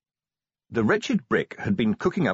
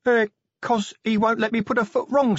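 put-on high, recited young troll; young troll reciting an answer, by rote; reading off a card; 13 semitones higher, 3 dB louder than usual. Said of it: "as if reading it off a card".

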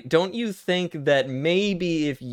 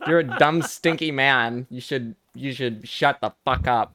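a lightly put-on valley girl, mock-sassy. A mild valley girl voice telling off her dumb cohost. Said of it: "that's how girls from the valley talk".

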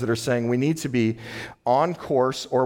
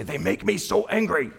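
mimicking a whiny client, pitched higher; 9 semitones higher than usual. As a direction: play the sulky spouse blaming the partner. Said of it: "somebody will say".

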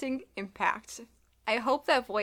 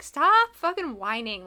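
loud, drawn-out exasperated scolding; raised-voice mock telling-off; mock exasperation; 4 semitones higher, 8 dB louder than usual. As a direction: snap at a whiner, slow and emphatic. Retold exasperated scolding of character.

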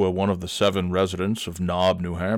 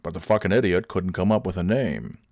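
ordinary talk, nothing marked

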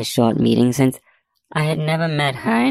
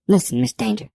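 mild, higher-pitched softening; softened warning tone; 8 semitones higher than usual. A narrator's reading. Judge readying a blow to investigator, softened warning. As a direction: ease off gently before bad news. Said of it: "softening her tone as if to warn me".

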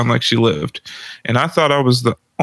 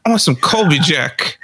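higher, fast, exasperated mock yell at the boyfriend; retold yelling girlfriend; 8 semitones higher than usual. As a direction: imitate her snapping back in a high, quick rush. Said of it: "she yells at me".

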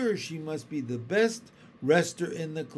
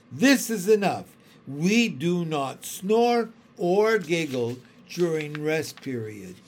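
stern raised voice; 5 dB louder than usual. Acted. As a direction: lay down the rule firmly. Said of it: "a voice that was no longer soft".

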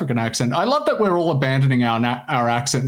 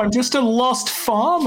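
higher, meek lost-farmer voice; 9 semitones higher, slower than usual. Pretend. Podcast host hams up a lost farmer, higher, meek. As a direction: play the helpless country bumpkin.

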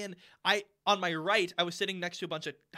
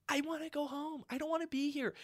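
put-on higher-pitched little kid whine; whiny child; 8 semitones higher, 4 dB quieter than usual. Little girl wanting to go home, whining. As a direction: mimic a girl begging to leave.

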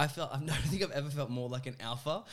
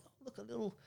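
cooing at dog; 10 semitones higher, 10 dB quieter, faster than usual. Retold or imitated.

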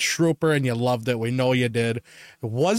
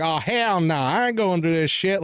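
mock gangster; 4 semitones higher than usual. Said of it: "I was going full on gangster".

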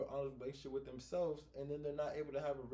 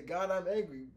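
loud, higher acted anger; angry admission; 5 semitones higher, 6 dB louder than usual. Modelling an honest admission to God, acted anger. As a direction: declare the anger openly. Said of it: "just being able to say".

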